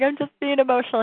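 retold own protest. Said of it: "And I'm like".

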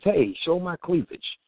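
slow, mocking show-off kid. Host mocking kids who want to be noticed, slow mock boast. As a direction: drawl it like a kid craving attention. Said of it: "which is".

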